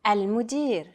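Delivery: "المدير" as a careful standalone model; model pronunciation. Shown as a demonstration. Native speaker gives learners another try, model pronunciation. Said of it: "Try again".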